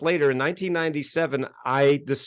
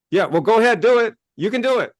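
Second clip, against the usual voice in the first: mock pep talk; 7 semitones higher, 5 dB louder than usual. Mocking guru's empty encouragement.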